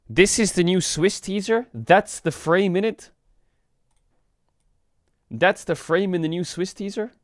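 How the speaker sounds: high, slow disbelieving questions; can't believe what you're seeing; incredulous. Real, not acted. Reacting in disbelief to teaser.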